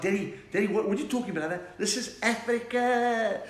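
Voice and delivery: high, loud mock-indignant son; hammed-up fervent young man; impassioned son. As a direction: protest to dad, stretching out the declarations. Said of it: "he's like".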